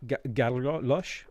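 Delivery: Galios slowly sounded out after a false start; unsure pronunciation. Real, not acted. Streamer trying to remember a name, unsure pronunciation. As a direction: stumble on Ga-, then slowly try Galios. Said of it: "I don't know how to say it".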